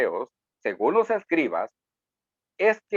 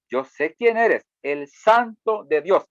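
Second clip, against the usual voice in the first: defiant demon; slower than usual. Acted.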